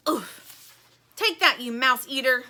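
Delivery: Plastic's mock battle yell. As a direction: taunt the shark as you strike. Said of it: "she yells".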